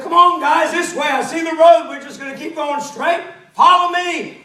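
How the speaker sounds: eager leader calling back down the road. Acted. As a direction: shout ahead to lead everyone on. Blind man calling the crowd forward.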